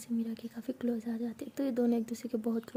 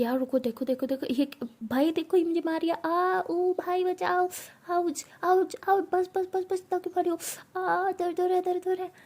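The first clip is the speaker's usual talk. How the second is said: hammed-up pained wailing, higher; fake crying drama; 7 semitones higher, 3 dB louder than usual. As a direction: overplay the hurt like a drama queen. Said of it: "ये क्या नौटंकी है". (नौटंकी वाली झूठी रोने की आवाज़)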